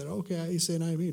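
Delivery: "I am he" run together quickly and casually; blown through. Shown as a demonstration. Preacher mimicking readers who skim the verse, offhand. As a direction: breeze through "I am he" without weight. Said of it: "for us to blow through".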